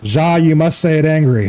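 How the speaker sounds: hammed-up angry German voice; mock German accent. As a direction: order it in a put-on German accent. Puts on German for angry demand.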